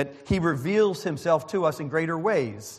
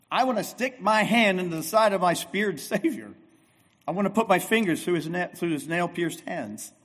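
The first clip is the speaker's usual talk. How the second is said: a touch higher, insistent Thomas; mock Thomas, worked up; 3 semitones higher than usual. Preacher voicing Thomas's demand, lightly worked up. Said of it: "Why so jacked up?".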